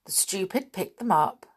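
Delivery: ordinary delivery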